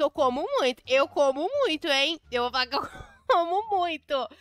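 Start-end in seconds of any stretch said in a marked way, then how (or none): 2.3-4.3 laughing. Real, not acted. Laughs while joking.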